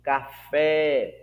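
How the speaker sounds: café with a drawn-out FÉ; café, lengthened on its last syllable; stress on last syllable. Shown as a demonstration. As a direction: lean on the final FÉ of café. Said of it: "perceba que é na última sílaba".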